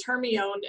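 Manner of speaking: "Hermione" as HER-mee-own; mistaken "Hermione". Shown as a demonstration. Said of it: "how many of us thought".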